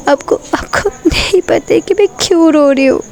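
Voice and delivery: a hint of crying, voice pushed up; tearful complaint. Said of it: "वो रोने लग जाती है". (नाराज़ प्रेमिका, रुआंसी शिकायत)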